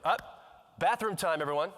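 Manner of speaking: lightly imitated teacher calling the class; teacher's announcement. Teacher abruptly announcing bathroom time to class, imitated call-out. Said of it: "the teacher all of a sudden stands up".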